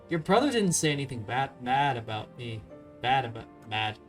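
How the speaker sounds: stumbling between "bad" and "mad"; real slip of the tongue, muddling "bad" and "mad"; tongue-tied. Real, not acted. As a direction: trip over "bad", swapping it with "mad". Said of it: "I can't speak".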